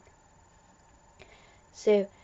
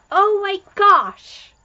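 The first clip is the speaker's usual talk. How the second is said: much higher and louder, slow gushing cry; real excited squeal; 12 semitones higher, 11 dB louder, slower than usual. Real, not acted. Fan seeing the tardis start up, excited squeal. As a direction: burst out in delight.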